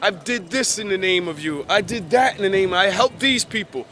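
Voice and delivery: lightly voiced believers listing their good deeds; pleading believers. The false faithful pleading to the Lord on judgment day, lightly mocked. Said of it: "I think a quote".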